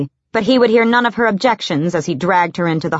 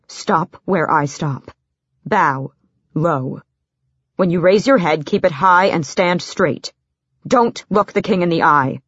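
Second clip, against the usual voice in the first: measured, spaced-out orders; deliberate instructions with a grave edge; lightly voiced captain. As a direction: lightly play a stern officer briefing his charge.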